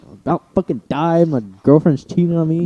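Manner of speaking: retold exasperated griping at normal volume; frustrated. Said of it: "like, all frustrated and shit".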